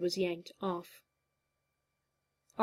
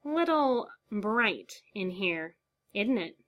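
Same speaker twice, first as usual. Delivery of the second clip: slow, lightly nasal creepy drawl; a hint of the Joker, slow; high nasal voice; 2 semitones higher, slower than usual. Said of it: "a high, nasal voice asked".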